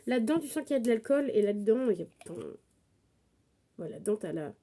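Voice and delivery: stuffy nose, talking through a blocked nose. Real, not acted. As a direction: speak as if your nose is stuffed up. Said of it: "j'ai le nez bouché, comme vous pouvez l'entendre".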